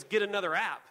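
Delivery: loud, mock dismissive comeback; curt retort. Wife to husband about his app, curt retort. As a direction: dismiss it firmly, imitating the wife.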